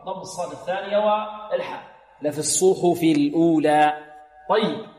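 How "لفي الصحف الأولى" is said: "الصحف" with clear rounded u on ṣād and ḥā; full damma. Shown as a demonstration. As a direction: keep both u vowels of "الصحف" round. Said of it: "ونحافظ على الضم". (تحقيق الضم في "الصحف")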